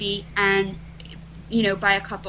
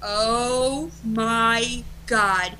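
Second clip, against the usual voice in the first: drawn-out, stunned reaction at usual pitch; retold stunned awe; much slower than usual. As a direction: let each word land in disbelief. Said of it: "I'm freaking out".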